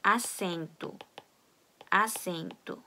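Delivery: "assento" with a strong ss; "assento" said carefully, strong ss; Portuguese assento. Shown as a demonstration. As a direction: say "assento" with a hard ss like Korean ㅆ. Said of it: "이렇게 읽습니다".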